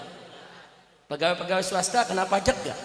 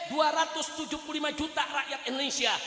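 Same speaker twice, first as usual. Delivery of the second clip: loud, shouting sermon at full force; fiery preaching; 4 semitones higher, 16 dB louder than usual. Acted. Preacher rousing the crowd against corrupt officials, shouting. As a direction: hammer each phrase at the crowd.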